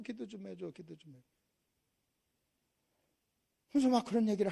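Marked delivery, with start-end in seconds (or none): 0.0-1.3 begging that sinks to a murmur; spent, dwindling plea; imitated plea fading away. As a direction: let the acted plea die away softly. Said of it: "나보러 뭐라고 그러는지 아십니까".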